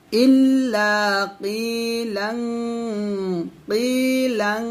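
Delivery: কিলাং ending in a humming ং ghunna; nasal tanween. Shown as a demonstration. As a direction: hum the end of কিলাং. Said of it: "লাং গুণনা করবেন". (কিলাং-এর শেষে গুন্নাহ)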